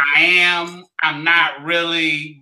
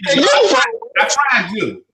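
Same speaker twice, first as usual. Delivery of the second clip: very slow gloating "I fried you"; drawn-out taunt; 7 semitones higher, 3 dB louder, much slower than usual. Real, not acted. Boasting taunt at friend.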